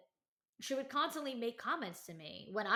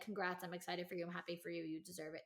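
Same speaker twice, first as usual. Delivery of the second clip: soft congrats; 2 semitones lower, 5 dB quieter, faster than usual. Pretend. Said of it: "there was never a moment of".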